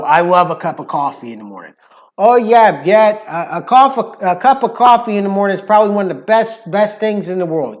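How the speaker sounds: chatty New Yorker with rounded "coffee"; lively New York accent. Shown as a demonstration. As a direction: talk like a New Yorker about breakfast. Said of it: "the New York accent".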